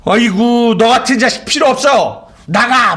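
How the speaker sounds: half-mocking furious parent throwing the child out; angry parent. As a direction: scold your child as if you'd lost patience. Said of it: "부모가 막 자식에게 화나면".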